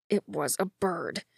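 soft, slow near whisper; barely audible whisper. A narrator's reading. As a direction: breathe it out, barely heard. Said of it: "he said in a barely audible whisper".

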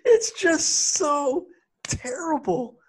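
laughing whisper. Real, not acted. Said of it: "laughing at the bad scene".

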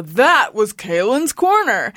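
slow, drawn-out announcer delivery; hammed-up show outro; announcery voice. Shown as a demonstration. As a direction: announce it grandly, stretching the words. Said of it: "in an announcery voice".

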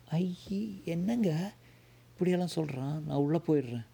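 high, startled wife's voice pulling back; a scared wife shrinking from a stranger; frightened wife. Acted. Wife to husband about the stranger, high and frightened.

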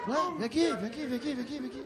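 soft, quick repeated beckoning, trailing down; hushed coaxing. Retold or imitated. Man coaxing a woman to come over, hushed beckoning. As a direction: coax her over in a fading undertone.

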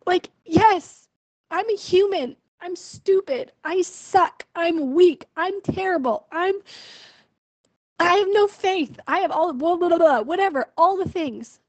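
exasperated concession. Real, not acted. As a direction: rattle off your own faults, fed up. Rattles off self-faults in exasperated concession.

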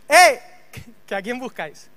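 grito corto y fuerte; llama la atención de golpe, muy fuerte; llamada enérgica. Retold or imitated. Jesús interpela otra vez a soldados. (un «eh» alto y enérgico)

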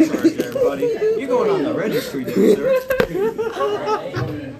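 high-pitched, giggling through the words; laughing. Real, not acted. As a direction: laugh while you talk it out. Laughing at a crude joke.

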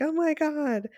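a hushed, high gasp of delight; awed whisper. Retold or imitated. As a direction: whisper it like you can't believe how cute this is. Awed reaction to excited kids.

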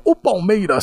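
mock reading from a script; imitated reading intonation. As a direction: announce it as if reading your own question. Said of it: "ele mudava a entonação".

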